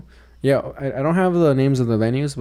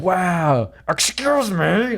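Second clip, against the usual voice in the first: mock polite; 5 semitones higher, much slower than usual. Mock polite reaction, quoted self.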